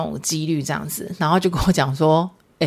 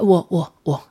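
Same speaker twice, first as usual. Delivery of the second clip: imitating stammer; 3 dB louder than usual. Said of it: "他就会突然间变结巴人这样".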